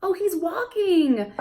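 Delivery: high slow parentese; high slow singsong exchange; slow question and answer. Shown as a demonstration. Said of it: "you could do".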